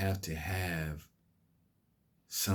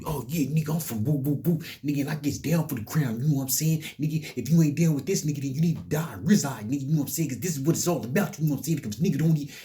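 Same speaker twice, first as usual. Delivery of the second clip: high, loud mocking street-tough voice; mock gangster voice; 7 semitones higher, 4 dB louder, faster than usual. Mocking young street kids who brag about gang life, high and loud. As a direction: lampoon the gangbanger bravado, pitched way up.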